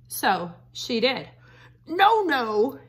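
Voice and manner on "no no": higher, louder hurt wolf voice; wolf protesting. Acted. Wolf pelted by Red, yelping protest. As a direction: yelp it as the rocks fly.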